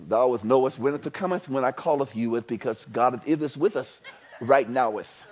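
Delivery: lightly hammed-up old Bible speech; mock King James English. Preacher joking about King James talk, mock archaic. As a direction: play at archaic thee-and-thou talk. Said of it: "we talk like King James".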